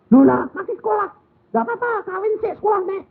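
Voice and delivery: high, quick mock child voice. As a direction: squeak it out like a cheeky kid. Children's answer voiced in story. (suara anak tinggi dan cepat)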